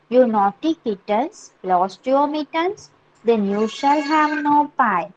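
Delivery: slow, measured nursery-rhyme reading; poem recitation. Acted. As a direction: recite it phrase by phrase for young pupils. Reads the poem aloud to class. (मुलांसाठी सावकाश कविता वाचन)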